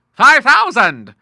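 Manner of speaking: loud, slow, high burst of surprise; the Admiral exclaiming at the sum; astonished exclamation. A narrator's reading. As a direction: blurt the sum out in disbelief. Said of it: "exclaimed the Admiral".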